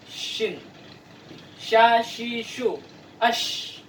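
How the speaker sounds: "Shin" with rounded lips and breath; Arabic shin demo; shin sound. Shown as a demonstration. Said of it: "Jadi lebih, eh, dimonyongkan".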